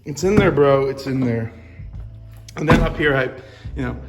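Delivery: garage reverb. Real, not acted. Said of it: "sorry for the, uh, reverb in here".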